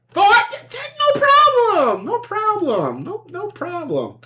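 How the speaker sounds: mock nervous stammer. Nervous reply to trample attack.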